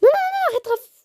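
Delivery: high, loud no no stop; sharp frantic protest. Real, not acted. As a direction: shout at your sister to stop. Telling Raph to stop.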